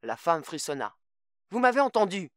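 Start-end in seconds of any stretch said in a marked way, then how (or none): 1.5-2.3 sharp high angry outburst; furious. Acted. Mother repeats her threat to call police, furious. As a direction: snap it back at him, much louder.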